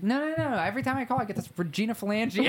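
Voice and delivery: high, exasperated insisting; exasperated Chandler. Retold or imitated. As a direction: protest in disbelief. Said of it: "And he's like".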